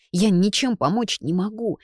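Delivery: usual speaking voice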